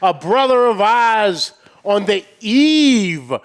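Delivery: hyped-up host welcome; show announcer intro. Pretend. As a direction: announce the guest with showy, stretched words.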